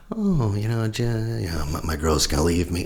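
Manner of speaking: acted fretting, starting high; engaging the worry. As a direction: voice the nagging thought with mild alarm. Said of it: "you can argue against it".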